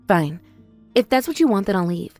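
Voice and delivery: resigned hurt. Acted. Sister gives up, leaving.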